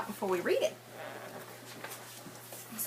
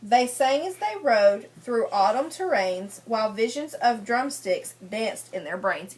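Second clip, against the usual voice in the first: sing-song read-aloud rhyme for a class; lilting picture-book reading voice; story reading to children; 2 semitones lower than usual. Acted. Teacher reads rhyming picture book.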